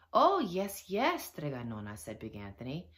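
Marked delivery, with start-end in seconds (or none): 0.1-2.0 loud, lifted, over-eager yes; overdone obedient enthusiasm; eager assent. A narrator's reading. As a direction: agree far too readily. Anthony eagerly feigns obedience to Nonna.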